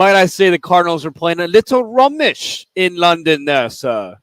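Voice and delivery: playful put-on British accent, proper and genteel; mock British accent. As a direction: ask it like a posh English gent, British accent. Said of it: "commenting on your beautiful British accent".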